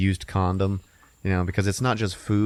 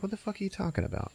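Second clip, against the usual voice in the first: incredulous scoff; 12 semitones higher, 9 dB quieter, faster than usual. Retold or imitated. Brenda scoffs at Frank.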